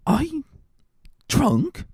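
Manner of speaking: put-on drunk protest.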